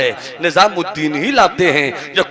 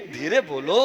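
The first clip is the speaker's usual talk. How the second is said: hushing; 6 dB quieter than usual. Acted. Saint hushes woman.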